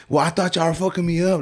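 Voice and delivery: high-pitched imitation of a wronged customer; plaintive, self-justifying protest; defensive client. Client explaining himself to shop owner, defensive.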